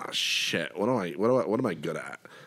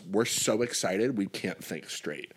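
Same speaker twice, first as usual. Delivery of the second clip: slogan read; 3 semitones lower, 4 dB quieter, much slower than usual. Retold or imitated. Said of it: "their slogan was".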